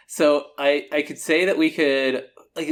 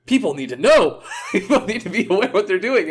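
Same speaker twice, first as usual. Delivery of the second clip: laughing; 8 semitones higher than usual. Real, not acted. Laughing while making the point.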